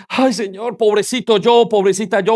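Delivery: imitating a self-pitying sufferer; lightly hammed-up woe-is-me complaint; mock tearful self-pity. Preacher mimicking a believer crying to God, mock self-pity. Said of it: "esté ya llorando diciendo".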